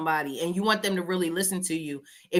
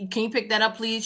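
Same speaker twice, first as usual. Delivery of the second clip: polite request; 3 dB quieter than usual. Retold or imitated. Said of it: "if you said".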